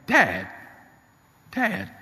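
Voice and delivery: a touch of tears, with pauses between cries; tearful, trembling. Retold or imitated. Shaken son to his father after the accident, tearful. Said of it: "with a tearful, trembling voice".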